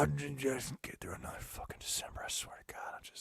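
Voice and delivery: mock grumbled whisper; jaded Santa whispering his complaints; grizzled angry Santa. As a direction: whisper it like a worn-out grouch muttering. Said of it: "like, angry".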